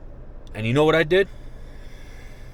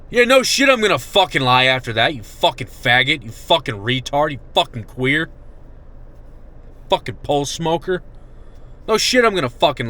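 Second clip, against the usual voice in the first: angry outburst. Real, not acted. Ranting furiously at the behavioral health staff. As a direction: lash out at them with real anger.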